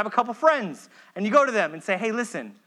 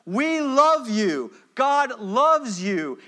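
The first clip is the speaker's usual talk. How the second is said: slow loving plea; 2 semitones higher, much slower than usual. Shown as a demonstration. Whole church appealing to a straying member, slow and tender. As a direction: stretch each word, tender and earnest.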